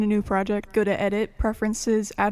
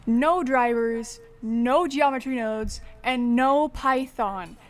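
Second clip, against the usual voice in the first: slushy sh for s; talking with a lisp. Real, not acted. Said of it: "I'm sorry about the lisp".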